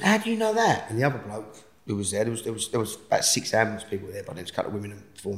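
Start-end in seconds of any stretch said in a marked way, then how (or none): 0.0-0.9 astonished question. Retold or imitated. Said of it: "Bliss went".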